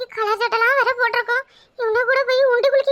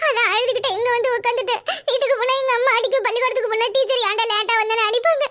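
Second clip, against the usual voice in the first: put-on crying boy. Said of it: "இப்ப என்னத்துக்கு அழற?".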